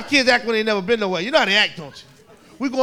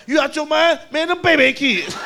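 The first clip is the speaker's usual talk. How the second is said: raised-pitch incredulous refusal; highway patrolman; 5 semitones higher, 3 dB louder than usual. Acted. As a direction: balk at it like a cop who wants no part. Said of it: "Highway patrolman pulled over".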